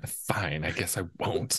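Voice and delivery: sullen, grudging mumble; sulky attitude. Pretend. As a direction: give it reluctant teen attitude. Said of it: "give me attitude".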